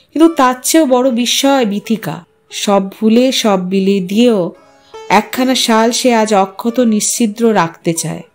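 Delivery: ordinary delivery, nothing marked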